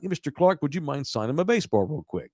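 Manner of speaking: lightly sweet, polite ask; sweet request. Retold or imitated. Fan asking the player nicely for an autograph, sweetly. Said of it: "I was very sweet about it".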